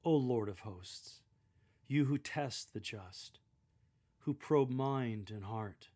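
slow, reverent prayer; reverent, prayerful. Shown as a demonstration. Jeremiah praying to the Lord of hosts, reverent and slow. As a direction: pray it humbly and slowly to God. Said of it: "a reverent and prayerful demeanor".

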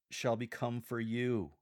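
slow, "become" leaned on and "you" underlined; stress on become. Shown as a demonstration. A lector answering straight to the congregation, stress on "become". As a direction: linger on "become", then press "you". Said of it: "highlighting become".

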